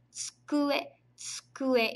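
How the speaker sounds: tsukue with a light tsu, first vowel nearly dropped; Japanese tsu sound. Shown as a demonstration. Teacher demonstrating the hard tsu sound, tsukue. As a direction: say tsukue as skue-eh, tsu almost swallowed. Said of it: "dificuldade em falar uma palavra que começa com tsu".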